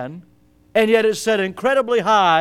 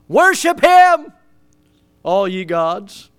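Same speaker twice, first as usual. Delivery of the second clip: crying out; 3 semitones higher, 6 dB louder, slower than usual. Retold or imitated. Preacher shouting David's cry to worship. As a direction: call it out like David lifting his voice. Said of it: "he just cries out".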